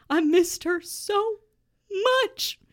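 mock furious lover; hammed-up anger. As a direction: start wistful, then blow up at him. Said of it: "Simon declared angrily".

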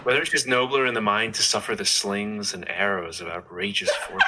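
put-on American-guy recital; American accent. Shown as a demonstration. Co-host reciting the soliloquy on request, American accent. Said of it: "do Hamlet as an American guy".

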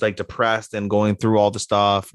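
ordinary talk

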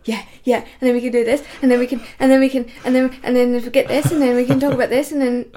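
fast, eager, tumbling over words; excited imitation. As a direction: mimic an overexcited friend rushing on. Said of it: "if you're excited about something".

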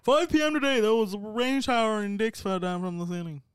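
mock Anchorman newscaster voice; loud fake TV news opener; parody news anchor. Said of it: "How to do the Anchorman voice".

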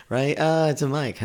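little nervous laugh into a light answer; nervous chuckle. Retold or imitated. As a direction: lighten the mood with an uneasy laugh. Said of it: "you kinda go".

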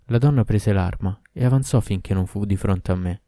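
usual speaking voice

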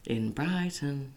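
Gogglebox impression. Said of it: "do your impression of the Gogglebox".

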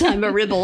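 "ribble" said for rebel, with a short i; misheard rebel. Retold or imitated. Retelling how Maddie misheard the phrase, "ribble" with a short i. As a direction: say "ribble", the first vowel as in rib. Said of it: "But then she heard it".

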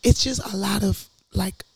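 hoarse, half-whispered voice; raspy whisper. Real, not acted. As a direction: speak with a worn-out, hoarse voice. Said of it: "I have no voice".

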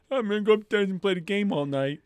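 loud, high-pitched gleeful announcement; hammed-up eagerness. Gamer planning the night after recording, hammed-up loud excitement. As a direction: burst out with it, mock giddy. Acts out eagerness to play tonight.

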